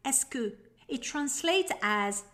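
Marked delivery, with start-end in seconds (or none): 0.1-0.5 "est-ce que" said as ess-kuh, run together into one smooth unit; pronunciation demo. Shown as a demonstration. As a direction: say "est-ce que" clearly as two quick syllables, ess-kuh. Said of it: "pronounced as".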